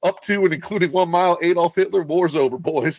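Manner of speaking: a hint of a swaggering soldier; the speaker quoting. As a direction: brag like a cocky sniper. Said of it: "He's like".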